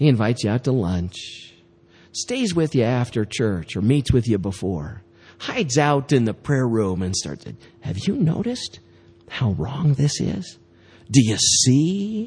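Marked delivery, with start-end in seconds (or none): 11.4-12.3 "see" hit hard, emphasized. Acting out a divisive person's words in the prayer room, stress on 'see'. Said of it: "Emphasis on the see".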